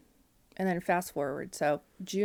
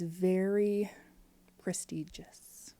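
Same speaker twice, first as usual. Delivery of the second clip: hushed mock awe; much slower than usual. Real, not acted. Describing the fancy cemetery, slow hushed mock awe. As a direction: whisper the word as if it were too fancy to say aloud. Pricey cemetery, mocking word.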